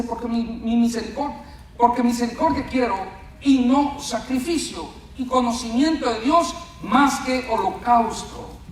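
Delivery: firm, emphatic verse reading; scripture reading. Shown as a demonstration. Preacher reading Oseas to the congregation, emphatic. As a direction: read the verse out with punched phrases. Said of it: "Le leo rápido esto".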